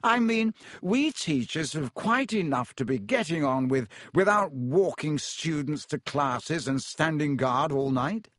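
lightly voiced vain professor; pompous Lockhart. Lockhart continues smugly.

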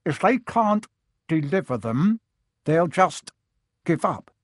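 talking around a mouthful of nails; mouth full. Acted. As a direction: say it through clenched nails. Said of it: "through a mouthful of nails".

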